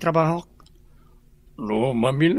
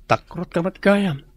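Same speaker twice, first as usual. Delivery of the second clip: laughing tease; 3 semitones higher, 4 dB louder than usual. Acted. Teasing a friend about injections.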